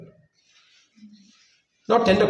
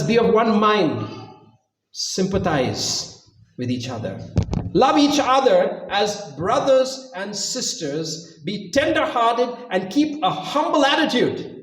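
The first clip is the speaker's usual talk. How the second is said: scripture reading; 3 semitones higher, slower than usual. Acted.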